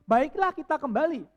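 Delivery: loud, measured Bible reading; scripture reading. Acted. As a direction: read the passage to the congregation. Membaca Alkitab. (membaca firman dengan khidmat)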